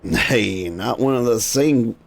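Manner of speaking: lightly voiced crusty old seadog, grumbling and gossipy; grumpy old sailor. Old sailor grumbling to the initiate about the siren, lightly voiced. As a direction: growl it like an old cannon boy fed up with waiting.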